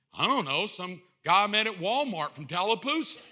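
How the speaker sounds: lightly voiced sheepish husband; clueless husband. Husband explaining himself to his wife, clueless. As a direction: answer like you have no idea. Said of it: "they had to come home".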